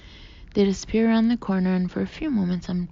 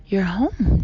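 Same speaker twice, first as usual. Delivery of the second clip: excited; 7 dB louder than usual. Acted. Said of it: "Dad exclaims".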